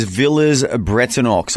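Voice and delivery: Villers-Bretonneux said English-style, sounding the X in Bretonneux; clumsy English pronunciation. Real, not acted. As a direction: anglicise Villers-Bretonneux, every syllable plainly sounded. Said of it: "I'm not doing that word any".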